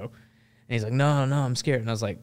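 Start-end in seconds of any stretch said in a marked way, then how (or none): 0.9-1.8 higher-pitched French reporter protesting; mock-frightened French accent. Scared French reporter refusing to move, in a French accent. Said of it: "I can do a French accent".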